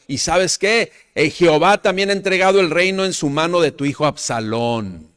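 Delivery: loud, high mock curse at the king; preacher voicing Simei cursing David; angry cursing. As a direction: spit out the accusation. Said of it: "Y decía Simei, maldiciéndole, le gritaba".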